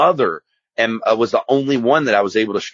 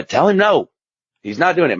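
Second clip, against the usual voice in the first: background voices; 7 semitones higher than usual. Retold or imitated. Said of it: "people in the background".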